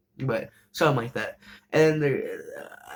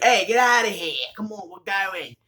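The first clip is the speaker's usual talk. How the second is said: mock tough callout; 5 semitones higher than usual. Main character chasing off harassers.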